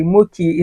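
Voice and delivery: Mochi said with a hard k, "MOH-kee"; alternative pronunciation. Shown as a demonstration. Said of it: "Is it pronounced Mochi or Mochi?".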